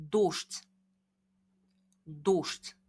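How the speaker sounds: careful Russian pronunciation of 도슈츠; 도슈츠 modelled for students; Russian word demo. Shown as a demonstration. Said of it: "발음에 조금 주의를 하셔야 됩니다".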